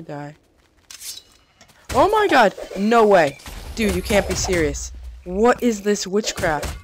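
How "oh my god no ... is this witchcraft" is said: loud, high disbelieving yell, slowing down at the end; shocked shout. Real, not acted. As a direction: shout in real disbelief at the swarm. Swarmed by many creepers.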